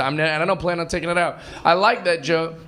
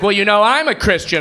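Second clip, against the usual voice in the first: higher, louder mock huffiness; indignant lady; 4 semitones higher, 5 dB louder than usual. Comic imitating the offended Christian lady, loud indignation. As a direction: imitate an offended woman asserting herself. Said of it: "this one lady went bananas".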